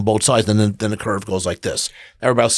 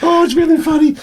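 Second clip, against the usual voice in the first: rising, laughing more with each line; building laughter; 6 semitones higher than usual. Acted. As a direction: talk through growing laughter, getting higher. Suggests contagious laughter.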